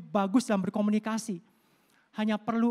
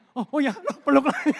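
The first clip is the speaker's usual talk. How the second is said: louder and higher, laughing through the words; laughing relief; 5 semitones higher, 8 dB louder than usual. Retold or imitated. Pastor recalling hugging his crying wife again, laughing. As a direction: giggle it out, sheepish and relieved.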